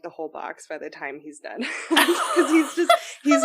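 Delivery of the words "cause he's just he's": giggling through the words; laughing. Real, not acted. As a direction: laugh while you talk. Laughing about boyfriend binging.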